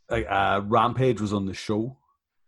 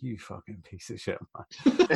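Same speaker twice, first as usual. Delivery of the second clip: laughing insult. Retold or imitated. Retold disgusted reaction, laughing.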